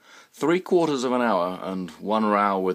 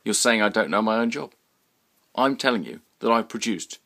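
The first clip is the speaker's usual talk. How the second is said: louder, higher menacing push-back; aggressive workman; 4 semitones higher, 6 dB louder than usual. Acted. Sign man threatening Roy over payment, aggressive. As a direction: lean on him, threatening.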